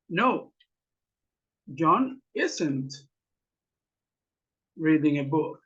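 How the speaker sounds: slow dictation, long pauses; word-by-word answer. Shown as a demonstration. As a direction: give the negative answer piece by piece. (respuesta negativa dictada por partes)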